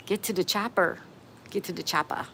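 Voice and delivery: lightly imitated action-hero accent; a half-hearted take on a famous movie line; Arnold Schwarzenegger. Streamer reading Uncle Hairball's chat quote, light Arnold Schwarzenegger impression. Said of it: "Arnold Schwarzenegger voice".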